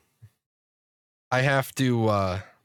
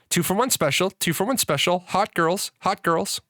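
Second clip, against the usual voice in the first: high, repeated parrot squawk; 6 semitones higher than usual. Acted. Parrot squawks at the son, high and sing-song.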